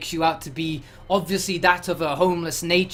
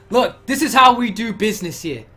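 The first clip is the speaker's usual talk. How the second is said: officer asserting rank; 3 semitones higher, 4 dB louder than usual. Acted. GM voices officer asserting power.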